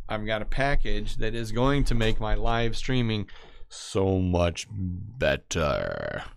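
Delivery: loud, eager announcement slowing to a drawn-out finish; very excited. Real, not acted. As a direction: gush about it, stretching the last words. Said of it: "I'm very excited about it".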